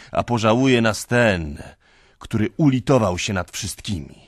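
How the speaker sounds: loud, high fervent proclamation; preaching. Acted. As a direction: proclaim it like a prophet. Ecstatic drunken preaching. (z żarem kaznodziei)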